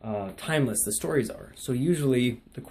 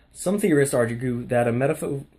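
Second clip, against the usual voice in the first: loud rushed reading that trips up; rapid reading; 2 semitones higher, 6 dB louder than usual. Shown as a demonstration. Student reading an ethics handout to viewers, rapid reading. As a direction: race through dense text and stumble. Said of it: "read it as fast as I can".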